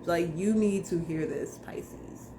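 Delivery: hushed whisper of a secret message. Acted. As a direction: lean in and breathe it like a secret.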